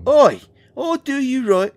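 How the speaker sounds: insulted again and squaring up to a dragon; indignant shout. Real, not acted. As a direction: shout the threat back. Johnny insulted again, threatens.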